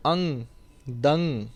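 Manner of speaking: ਅੰਗ then ਦੰ with a nasal ng close; tippi sound. Shown as a demonstration. Teacher sounding out the tippi for students, nasal ng ending. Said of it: "ਟਿੱਪੀ ਦਾ ਜੋ ਉਚਾਰਨ ਹੈ".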